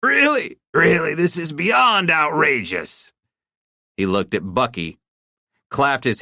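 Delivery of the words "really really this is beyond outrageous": amused disbelief. A narrator's reading. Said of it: "laughs turned into guffaws".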